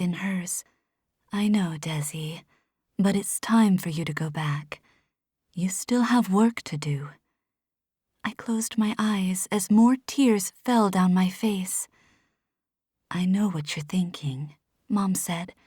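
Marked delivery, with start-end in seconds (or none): 1.3-7.1 a gentle mom, close and hushed; mother's voice. Acted. 13.1-14.6 soft, lower loving mother; a gentle mom, close and hushed; mother's voice. Acted.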